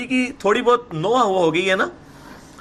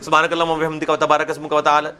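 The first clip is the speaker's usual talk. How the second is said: mock rush through it, quietly and flat; جلدی جلدی نقل; rushed recitation; 4 semitones lower, 3 dB quieter than usual. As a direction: gabble it as if in fourth gear. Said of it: "چوتھے gear میں ہی پڑھ رہے ہوتے ہیں".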